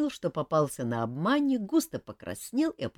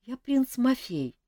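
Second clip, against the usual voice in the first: sullen; 12 semitones higher, 4 dB louder, slower than usual. Acted. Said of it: "угрюмо представился мальчишка".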